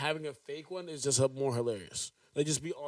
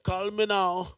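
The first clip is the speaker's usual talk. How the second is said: slow, higher hotline plug; Miss Cleo; 4 semitones higher, 4 dB louder, slower than usual. Pretend. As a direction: pitch it like a late-night psychic ad. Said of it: "Miss Cleo version".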